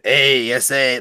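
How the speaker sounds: stretched-out attempt at a Hispanic accent; drawn-out mock-Hispanic greeting; slowed Hispanic accent. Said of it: "Michael's saying to slow it down".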